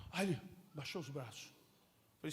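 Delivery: normal talking voice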